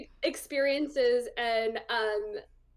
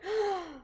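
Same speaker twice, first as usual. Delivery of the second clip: mock gasp; 6 semitones higher than usual. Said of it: "first instinct was like".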